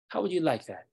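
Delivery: high, forceful rhetorical question; challenging. Acted. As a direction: confront the culprit, pitch jumping up. Tsar challenges the captured prince.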